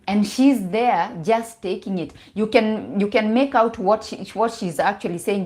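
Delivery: ordinary delivery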